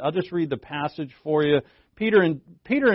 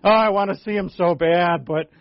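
worn-out Peter; 2 semitones higher, 6 dB louder than usual. Retold or imitated. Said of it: "See Peter with his plantar fasciitis kinda limping".

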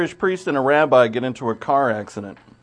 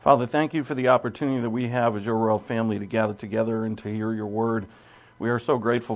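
prayer. Acted. Leads congregation in prayer.

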